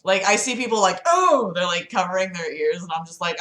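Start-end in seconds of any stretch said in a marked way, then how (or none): 1.0-1.5 mock startled Oh, higher; a quick imitated jolt of surprise; startled gasp. People startled by siren.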